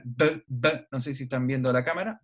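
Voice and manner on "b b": "b, b" as a stop, lips closed and released; bilabial b demo. Shown as a demonstration. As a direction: pop "b, b" with both lips. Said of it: "manifestación que es bilabial".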